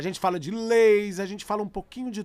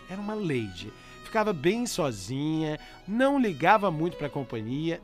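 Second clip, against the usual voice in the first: letter reading. Acted. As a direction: read the letter gently over music. Reads listener's letter over music.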